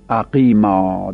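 slow demo. Shown as a demonstration.

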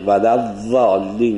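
ولوالین with ض close to ظ, tongue side to teeth; ولوالین, ض voiced like ظ; Hejazi zad. Shown as a demonstration.

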